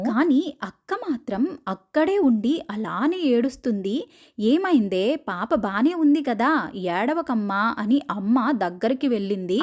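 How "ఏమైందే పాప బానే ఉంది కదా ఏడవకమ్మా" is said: slow, gentle comforting; consoling mother. Retold or imitated. Mother soothing her crying daughter, slow and gentle. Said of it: "అక్కని ఓదారుస్తూ".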